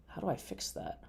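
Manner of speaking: whispering. Real, not acted. Muttering to himself at computer.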